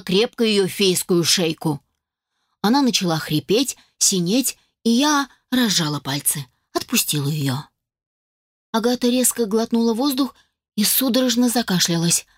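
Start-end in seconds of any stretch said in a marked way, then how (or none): none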